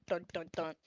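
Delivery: three low, soft knocking sounds; imitated door knock. Game master sounding a knock at the door, softly. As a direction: voice a knock in even, low beats. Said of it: "you hear a knock at the door".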